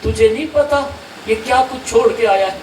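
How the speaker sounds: preacher voicing a stern warning to Umar; stern rebuke. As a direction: raise the voice in righteous anger. Prophet rebukes Umar in story.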